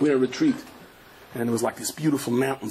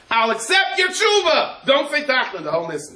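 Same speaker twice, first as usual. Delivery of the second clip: a hint of God's voice; 12 semitones higher, 5 dB louder than usual. Voicing God's message.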